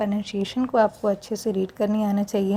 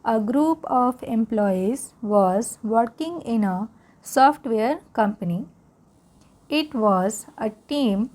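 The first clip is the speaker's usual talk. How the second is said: slow read-aloud to repeat after; teacher reads slowly for students to repeat; much slower than usual. Shown as a demonstration. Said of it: "फिर से एक बार मेरे साथ repeat करेंगे".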